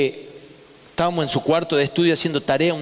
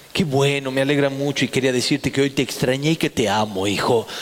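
un poco más grave, suave y tierno; padre tierno; 4 semitones lower than usual. Retold or imitated. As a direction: decilo como un padre que abraza al hijo. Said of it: "lo abraza a mi amigo y le dice". (el gerente rico le habla con ternura al hijo, suave)

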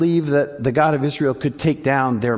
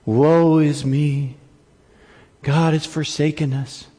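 mock woe; slower than usual. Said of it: "All is lost".

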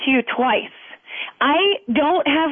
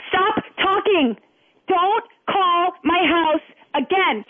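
slow, firm; much slower than usual. Real, not acted. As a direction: Stop talking, each word slow and spaced. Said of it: "repeated slower".

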